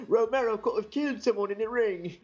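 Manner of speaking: imitating Bisping in a lightly British accent. Podcaster mocking Bisping in a light British accent. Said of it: "British accent".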